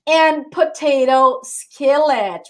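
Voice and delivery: slow, careful English; slow model pronunciation. Shown as a demonstration. Teacher modelling a menu item for the class to repeat. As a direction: draw each word out for repeating.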